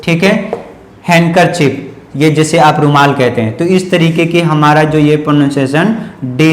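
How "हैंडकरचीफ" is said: हैंडकरचीफ said as "han-ker-chip"; silent D. Shown as a demonstration. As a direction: drop the d in हैंडकरचीफ. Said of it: "यानी कि डी नहीं".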